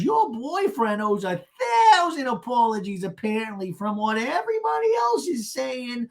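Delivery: high-pitched mock retort; Gina. Gina firing back at Shannon, mock indignant. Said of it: "And Gina goes".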